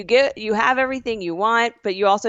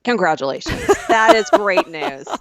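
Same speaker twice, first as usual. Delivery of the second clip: mock congratulations; 3 dB louder than usual. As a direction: stretch out the great news with sarcastic delight. Mock relief about coin shortage.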